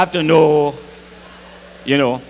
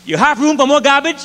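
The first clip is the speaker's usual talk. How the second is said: woman calling; 7 semitones higher than usual. Retold or imitated. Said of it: "She say to the fella".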